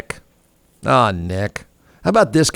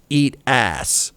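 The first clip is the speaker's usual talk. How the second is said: Eat ass said much softer; hushed quote; 2 semitones lower, 5 dB quieter than usual. Retold or imitated. Host quotes the tweet, hushed. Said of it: "your company tweets".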